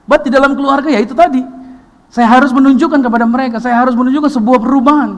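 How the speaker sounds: loud, high, driving sermon voice; full-force preaching. Acted. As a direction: preach it hard to the congregation. (pendeta berkhotbah kepada jemaat, suara keras dan tinggi)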